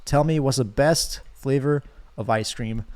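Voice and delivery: slow, even question; lightly voiced ocean demand. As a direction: ask it slowly and calmly, barely in character. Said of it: "the ocean is still talking to me".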